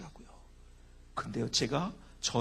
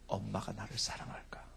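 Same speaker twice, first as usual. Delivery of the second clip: hushed confession; 7 semitones lower, 7 dB quieter than usual. Real, not acted. Confessing hidden childhood hurt.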